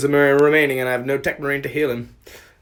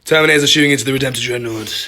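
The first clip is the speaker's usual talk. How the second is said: epic voice; 5 dB louder, faster than usual. Acted. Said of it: "I'm speaking in my epic voice".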